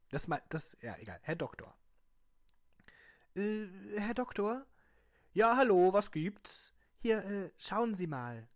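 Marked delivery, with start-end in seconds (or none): 3.4-8.5 high, loud character voice; high put-on voice. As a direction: pitch the voice up high. Patient and doctor dialogue.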